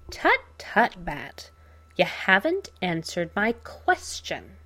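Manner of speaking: lightly voiced taunting villain; tut-tut like a smug villain; Joker voice. Joker scolds pinned Batman.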